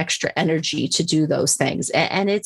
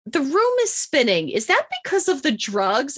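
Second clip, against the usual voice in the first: dazed question; 7 semitones higher than usual. Retold or imitated. Drugged patient asks dazed question.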